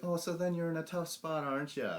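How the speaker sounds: mock-gloating jab; smug taunt. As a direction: rub it in with a chuckle.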